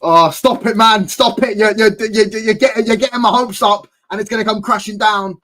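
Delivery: high, loud pleading protest; excited protest. Real, not acted. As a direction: beg them to stop hyping it. Excited fan begging not to hype.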